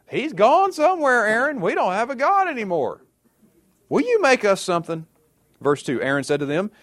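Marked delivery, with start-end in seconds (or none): 0.1-5.1 very high, loud mock wail; pleading complaint. People beg Aaron to make a god, high-pitched pleading. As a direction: ham up a helpless crowd's plea.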